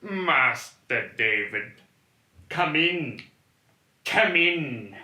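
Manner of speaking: slow, ominous welcome; creepy servant. Acted. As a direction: beckon him in eerily. Servant Morpheus role.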